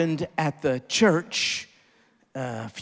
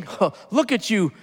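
mocking critics; 3 semitones higher than usual. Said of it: "People are berating us, saying".

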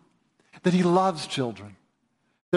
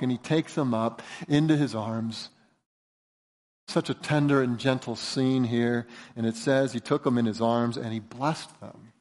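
lower, softened tender telling; 6 semitones lower, 4 dB quieter than usual. Real, not acted. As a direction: let the voice drop gently over the scene. Describing a tender, gentle scene.

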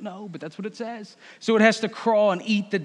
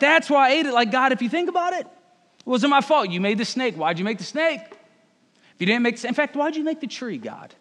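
Eve's excuses; 5 semitones higher than usual. Acted. Eve blaming God for snake and tree, high whine. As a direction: argue like a kid dodging blame. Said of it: "she replied".

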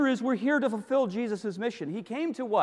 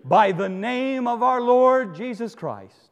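slow and weighty; solemn slow appeal; 2 semitones higher, 5 dB louder, slower than usual. Acted. Preacher appealing to the brothers, slow and solemn. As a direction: lay every word down slowly.

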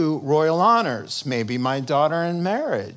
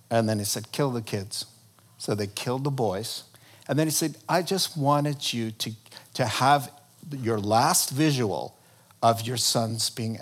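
grim storytelling; 2 semitones lower, 3 dB quieter than usual. A narrator's reading. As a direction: tell the horror gently and darkly. Preacher retelling a grim story.

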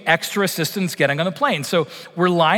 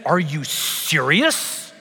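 slow incredulous challenge; much slower than usual. Retold or imitated. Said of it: "and I said".

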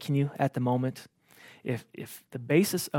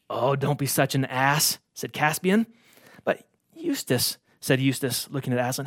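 measured storybook reading; a preacher reading a story to the congregation; story narration. A narrator's reading. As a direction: read the tale aloud, gently and evenly. Reads Narnia story aloud.

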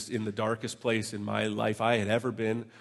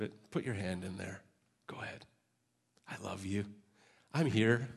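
gentle Jesus voice. Acted. Jesus gently inviting doubting Thomas to touch. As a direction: coax him gently, like a patient friend.

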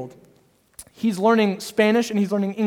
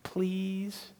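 put-on soft little-boy please daddy; toddler pleading; 8 dB quieter, much slower than usual. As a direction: coax sweetly like a small son. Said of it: "when he comes to me and says".

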